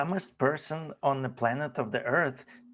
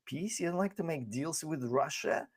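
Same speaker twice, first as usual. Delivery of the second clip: mocking tone; 3 semitones higher, 7 dB quieter than usual. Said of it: "it's like Ukraine".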